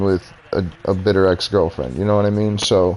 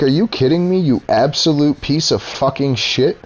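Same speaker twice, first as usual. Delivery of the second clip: much higher, furious retold yell; retold angry outburst; 6 semitones higher than usual. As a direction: fire it back at him, pitched way up in disbelief. Retold blow-up at boss Kevin.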